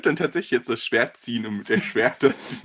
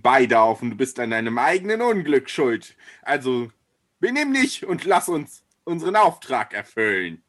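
rising, louder scolding anger; angry; 3 dB louder than usual. Acted. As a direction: lose patience and scold them. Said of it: "so zornig vor sich hin redet".

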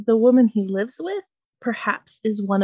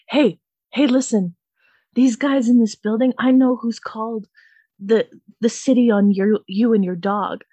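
mock yell; 4 dB louder than usual. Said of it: "trying to yell at my neighbor".

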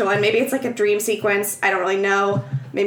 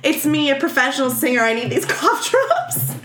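higher, self-important showing off; mock obnoxious; 3 semitones higher than usual. Singer flexing at her press interviews, mock obnoxious. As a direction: play the flexing star, lightly hammed up. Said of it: "she's so obnoxious".

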